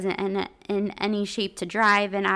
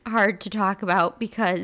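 getting emotional; 5 dB louder than usual. Real, not acted. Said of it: "sorry I'm getting emotional".

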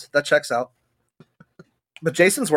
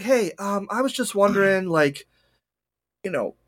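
lightly higher, overly polite doctor-call voice; weird polite phone voice; 3 semitones higher than usual. Retold or imitated. Patient calling the doctor, politely higher and nervous. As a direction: ask about dying as if booking an appointment. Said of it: "I do this weird voice".

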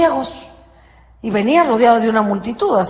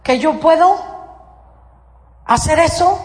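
higher, searching question; gentle question from Jesus; 6 semitones higher than usual. Acted. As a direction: ask it as if testing their faith. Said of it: "Les preguntó".

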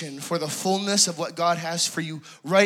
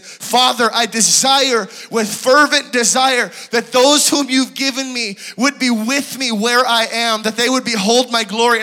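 fervent prayer; 6 semitones higher, 9 dB louder than usual. Retold or imitated. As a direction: cry out to the Father with longing. Fervent prayer of Jesus voiced.

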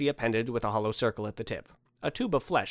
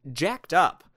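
higher, louder punch; indignant; 6 semitones higher, 5 dB louder than usual. Acted. Man sums up the strange place to Santa, indignant. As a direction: finish the rant on a heated note. End of the speaker's indignant rant.

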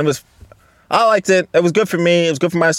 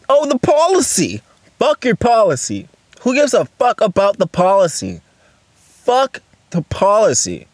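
mocking scorn; 4 semitones higher than usual. Real, not acted. Mocking the work policy.

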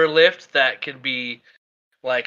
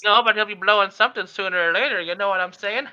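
lightly voiced old lady; 4 semitones higher than usual. Shopkeeper lady innuendo.

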